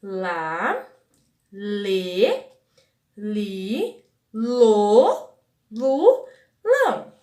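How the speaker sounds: syllable drill, each one alone with closed LÊ and LO; closed vowels. Shown as a demonstration. Teacher drilling the syllable family, LÊ and LO closed. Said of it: "falar os sons das vogais fechados".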